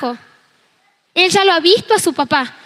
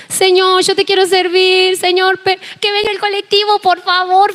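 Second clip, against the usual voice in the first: ruego algo agudo, imitando el llanto; súplica llorosa retomada; 3 semitones higher than usual. Retold or imitated. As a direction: suplicar a Dios con leve lloriqueo fingido. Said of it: "cuando estaba en la parada llorando". (súplica como llorando, un poco exagerada)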